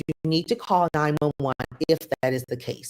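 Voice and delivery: composed, measured instruction; calm. Retold or imitated. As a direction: retell the advice without any alarm. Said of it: "I literally was this calm and said".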